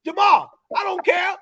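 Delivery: lightly voiced fiery soul singer ranting; impression of a soul singer. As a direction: play a cranky old star who won't be told what to do, only lightly put on. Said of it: "an impersonation".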